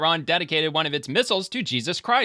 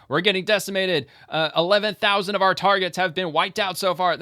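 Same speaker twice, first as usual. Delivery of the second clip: higher and louder, hammed-up official confession; mock state TV admission; 7 semitones higher, 4 dB louder than usual. Streamer mocks what Iranian state TV won't say, hammed-up announcer. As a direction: ham up a regime spokesman admitting defeat. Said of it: "they're not gonna say".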